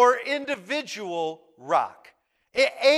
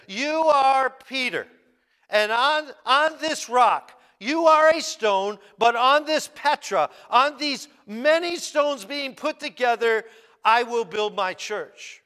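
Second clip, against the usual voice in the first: raised, emphatic preaching as Jesus; 2 semitones higher, 3 dB louder than usual. Acted. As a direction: declare it up and out.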